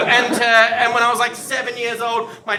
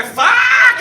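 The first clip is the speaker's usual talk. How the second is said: high, loud, drawn-out expletive; frustrated yell; 12 semitones higher, 9 dB louder than usual. Acted. Everyone seeing the TV news, acted frustrated yell. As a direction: let all the frustration out in one yell. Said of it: "We all wanna go".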